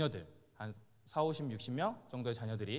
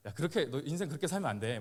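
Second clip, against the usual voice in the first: mock scolding; 2 semitones higher than usual. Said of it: "막 이렇게".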